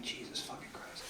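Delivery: barely audible whispered curse; hushed, private disbelief; exasperated muttering. Retold or imitated. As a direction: mutter it under your breath. Muttering behind an awkward customer.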